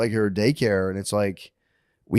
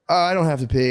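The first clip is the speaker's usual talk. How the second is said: imitated young daughter; 6 semitones higher, 4 dB louder than usual. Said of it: "She goes".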